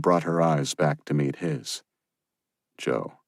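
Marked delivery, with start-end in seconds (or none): 2.8-3.2 whispered. Acted. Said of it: "he whispered".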